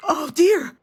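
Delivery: put-on high, loud little-kid cry; imitating a child screaming. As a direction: play the toddler yelling in alarm. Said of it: "you started screaming".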